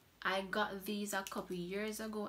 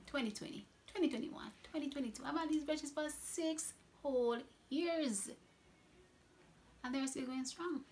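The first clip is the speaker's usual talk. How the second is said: building excitement; 7 semitones higher than usual. Real, not acted. Counting years with growing excitement.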